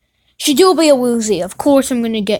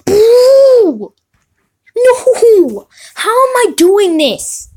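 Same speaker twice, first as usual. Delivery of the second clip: high, loud laughing cries, slowing at the end; laughing disbelief; 9 semitones higher, 5 dB louder, much slower than usual. Real, not acted. Laughing at a lucky pull.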